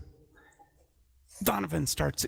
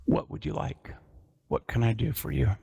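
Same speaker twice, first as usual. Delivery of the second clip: hoarse and weak; 2 semitones lower than usual. Acted. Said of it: "his voice is hoarse and weak".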